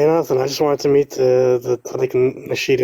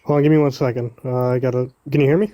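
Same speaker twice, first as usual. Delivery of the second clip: Moroccan accent. Real, not acted. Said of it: "I can hear that Moroccan accent".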